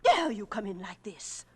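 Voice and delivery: furious whisper at the intruders; outraged at strangers writing on the blackboard, hissed angrily; angry hushed hiss. Acted. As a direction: scold in a sharp, forceful whisper. Secretary scolds intruders at blackboard.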